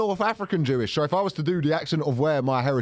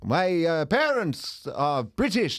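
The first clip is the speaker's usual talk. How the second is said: heavy put-on Eastern European accent, slow; hammed-up foreign accent; slower than usual. In a role play he answers the nosy old lady, hamming up a foreign accent. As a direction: ham up a foreign accent, dropping articles. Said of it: "I'll, I'll do the accent".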